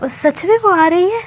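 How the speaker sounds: smiling, eager little question; with a smile. Retold or imitated. Boy asks his friend about Mitra, smiling. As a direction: ask it with a hopeful smile. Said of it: "मतलब एक smile के साथ".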